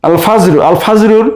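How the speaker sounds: "আল ফাজরু" with the article's lam audible; lam pronounced. Shown as a demonstration. Teacher repeating for students, lam sounded in "আল ফাজরু". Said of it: "আলিফ লামের লাম উচ্চারণ হচ্ছে".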